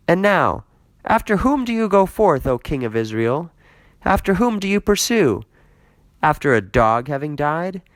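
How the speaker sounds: high, loud indignant David; a wronged man crying out to the king; David rebuking. Acted. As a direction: reproach the king who hunts him. David's rising reproach.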